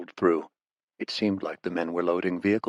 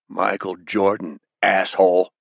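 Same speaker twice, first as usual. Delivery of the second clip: defiant prisoner, louder on the insult; angry, defiant retort; 3 dB louder than usual. Acted. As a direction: throw the insult back at the captor, building in force. Bound prisoner defies his interrogator.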